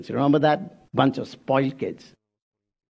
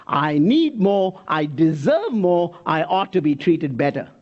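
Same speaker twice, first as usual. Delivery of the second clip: mock greedy whine; 2 semitones higher, slower than usual. Voicing entitled, greedy people.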